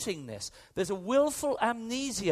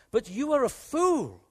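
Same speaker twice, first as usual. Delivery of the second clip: stern rebuke; 4 semitones higher, 7 dB louder than usual. Acted. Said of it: "Jesus rebukes".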